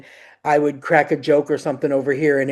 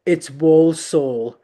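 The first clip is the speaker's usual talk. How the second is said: mock whisper correction. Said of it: "whispered in my ear".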